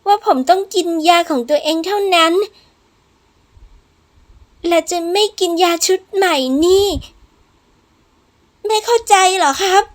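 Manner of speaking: stubborn, exasperated protest; defiant young patient. Acted.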